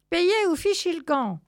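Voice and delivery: loud, high-pitched demand; brusque order. Acted. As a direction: send them packing. Ticket seller orders cats to leave.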